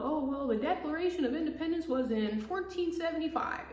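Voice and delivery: mock history teacher. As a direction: play a confused teacher lecturing wrong dates. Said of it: "a fucking history teacher".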